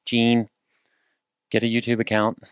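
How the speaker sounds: put-on light, teasing New York accent; playful mock New Yorker accent calling out to a friend. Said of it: "talking like this to make fun of all New Yorkers".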